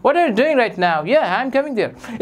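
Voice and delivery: closed-mouth British accent, drawn out slowly. Shown as a demonstration. Teacher showing students how Britishers talk, slow closed-mouth British accent. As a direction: imitate a British speaker barely opening the mouth. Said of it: "ऐसे बोलते हैं".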